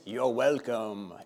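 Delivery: slow, put-on French accent. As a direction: play a welcoming candlestick in a French accent. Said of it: "I'll say it in the French accent".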